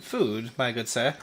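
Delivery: high, measured NPC official; guard captain voice. Acted. Official tells travelers to calm down, high and measured. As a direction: calmly lecture the travelers as an official.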